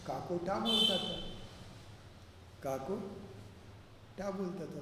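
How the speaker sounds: imitating a lisper, "टा" with t for k; mock lisp turning k into t in "टा"; lisped speech. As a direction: say "टा" in place of "का", as a lisper would. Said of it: "तोतला व्यक्ति बोलता है".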